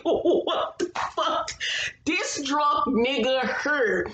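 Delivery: high, slow, laughing what the fuck; laughing disbelief. Real, not acted. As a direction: crack up in disbelief. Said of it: "And I was like".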